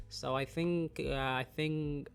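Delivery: stuffy, blocked-nose voice; congested voice. Real, not acted. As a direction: talk through a congested nose. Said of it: "voice sound congested".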